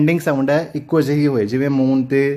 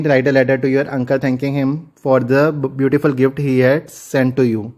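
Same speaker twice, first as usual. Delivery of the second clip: slow dictation reading; much slower than usual. Shown as a demonstration. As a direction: read each word slowly and clearly for the students. Teacher reads the activity task. (ਹੌਲੀ ਹੌਲੀ ਲਿਖਵਾਉਂਦੇ ਹੋਏ ਪੜ੍ਹਨਾ)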